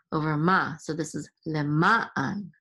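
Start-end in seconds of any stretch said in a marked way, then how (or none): 1.5-2.5 "le ma an" with the accent on "ma"; second-syllable stress. Shown as a demonstration. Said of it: "accent is on the second syllable".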